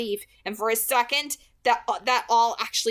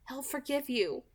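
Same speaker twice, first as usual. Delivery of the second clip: gentle promise; 4 semitones higher, 6 dB quieter than usual. A narrator's reading. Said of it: "she promised".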